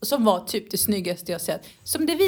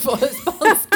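breaks up mid-word, higher and louder; laughing; 7 semitones higher, 6 dB louder than usual. Real, not acted. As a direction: crack up halfway through the word. Giggling over a misread word. (skrattar mitt i ordet)

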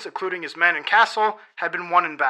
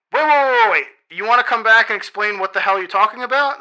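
panicked wait calls, higher and louder; agitated; 3 semitones higher, 4 dB louder than usual. Acted. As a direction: stop him in a flustered rush. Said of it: "The dragon's all agitated now".

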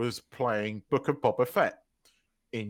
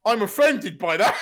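mock offence; 8 semitones higher, 8 dB louder than usual. Retells taking offence, laughing.

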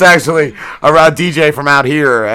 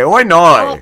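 mock Australian accent; 3 semitones higher than usual. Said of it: "how the Australians said".

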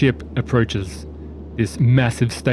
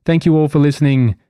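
upbeat podcast sign-off; outro announcer; 2 semitones higher than usual. Acted. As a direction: wrap up the episode brightly. Closing outro to listeners.

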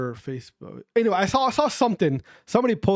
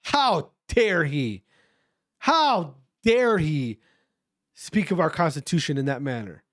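mock outrage; 2 semitones lower, slower than usual. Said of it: "He said".

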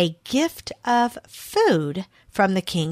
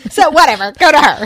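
playful; 7 semitones higher, 11 dB louder, faster than usual. Acted. Jokey aside, much higher and louder.

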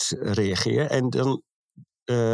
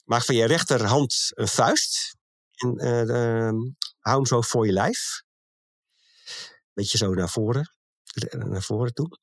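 rustige yoga-instructie; 2 semitones lower than usual. Shown as a demonstration. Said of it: "Dus doe maar even mee".

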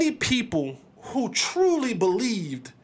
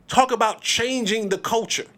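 normal talking voice

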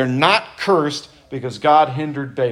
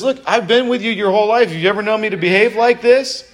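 reasoning donkey; 7 semitones higher, 3 dB louder than usual. Retold or imitated. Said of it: "the donkey says".

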